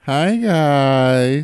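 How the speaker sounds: teasing his friend with a mock white voice. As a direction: put on a chipper white-person voice. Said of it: "I don't have a white voice".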